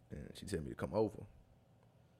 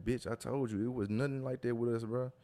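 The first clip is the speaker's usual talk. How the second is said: higher-pitched mock scolding; imitated telling-off; 5 semitones higher than usual. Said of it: "she started cussing and she started going off".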